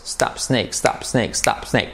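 "stop, snake" run together on a liquid S; linked S words. Shown as a demonstration. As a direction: join "stop" straight onto "snake", no E between. ("stop, snake" unidas, con S líquida)

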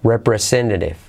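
"Representative" with T as a soft tap. Shown as a demonstration. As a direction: soften the last T of "Representative" into a light R. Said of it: "las T's las hacemos como R suave".

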